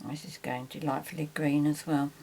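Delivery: talking while holding breath; words squeezed out on a held breath. Real, not acted. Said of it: "very difficult to talk when you're holding your breath".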